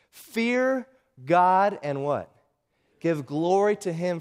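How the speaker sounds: slow, drawn-out proclamation; proclaiming loud voice. Acted. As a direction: announce it slowly like a heavenly herald. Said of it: "He says with this loud voice".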